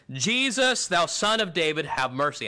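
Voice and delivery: crying out. Retold or imitated. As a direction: cry out to get his attention over the crowd. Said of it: "He cried".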